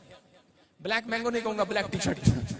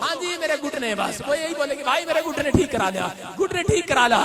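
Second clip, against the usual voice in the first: mock old woman; 3 semitones higher than usual. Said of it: "किसी बुढ़िया को पूछ लो".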